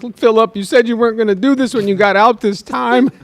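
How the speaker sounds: lightly voiced mom pleading; his mom. Mom scolding Philip as he comes out, mild. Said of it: "She's like".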